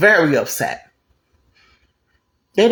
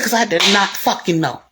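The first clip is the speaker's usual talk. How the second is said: emphatic, higher-pitched mock annoyance; mad, retold; 4 semitones higher than usual. Man answering why he is so mad, retold anger. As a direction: imitate a mad man stressing each word. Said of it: "What you so mad for".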